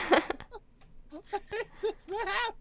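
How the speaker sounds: whiny fake crying. Real, not acted. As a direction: wail it like about to cry. Frustrated, losing lives.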